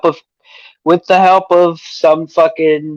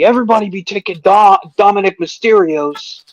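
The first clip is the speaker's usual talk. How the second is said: Pat McAfee impression; 6 semitones higher than usual. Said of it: "I loved Pat McAfee".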